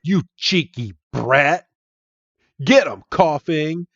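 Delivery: mock-indignant henchman; indignant villain. Team Rocket grunt to Red, indignant. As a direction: sneer it with a high jump on the order. Teller voices irate grunt.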